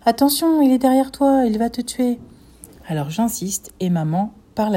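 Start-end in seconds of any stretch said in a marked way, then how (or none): 0.1-2.2 high, loud urgent warning to the screen. Acted. Mother warning a TV character loudly. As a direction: shout a warning at a film hero. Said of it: "maman dit à la télé".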